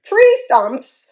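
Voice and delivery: high, loud wail. Acted. Hippo wailing at her stumpy legs. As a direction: cry the words out high. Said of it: "wailed Fragility".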